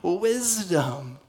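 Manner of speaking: sarcastic Pharisee. Acted. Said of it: "He says".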